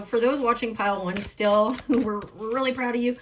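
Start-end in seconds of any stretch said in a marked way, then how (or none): 1.8-3.2 real laughter through the words; laughing. Real, not acted. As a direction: laugh as you say it. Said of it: "I'm laughing as a way of transmuting".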